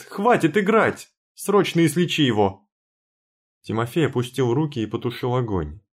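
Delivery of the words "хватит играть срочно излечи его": angry demand. Acted. Heroine demands, shouting.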